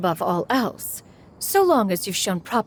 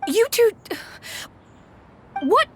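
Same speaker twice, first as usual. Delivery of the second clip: stern call-out; 12 semitones higher than usual. Acted. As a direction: snap their attention to you. Adeptus scolding the pair.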